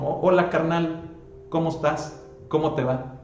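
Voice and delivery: a wry pretend greeting to a worldly friend; preacher mocking how carnal Christians greet each other. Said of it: "deberíamos de decir, no".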